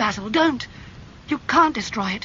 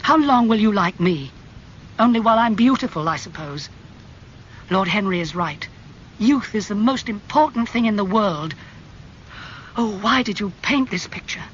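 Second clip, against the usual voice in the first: raised, higher, pleading fury; angry; 7 semitones higher, 4 dB louder than usual. A narrator's reading. Dorian raging at Basil over the portrait, angry and pleading. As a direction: rise to a desperate outburst. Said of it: "his face red and angry".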